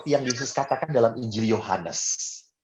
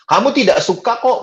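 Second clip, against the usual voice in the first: puzzled question; 8 semitones higher, 5 dB louder than usual. Retold or imitated. Priest asks why not eating.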